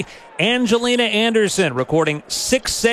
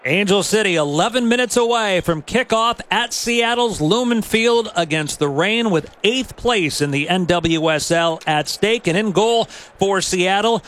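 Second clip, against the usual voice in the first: punchy lineup announcement with swooping pitch; sports announcer. Real, not acted. Announcer reading the starting lineup to listeners, sports announcer delivery. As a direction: announce each player's name with emphasis.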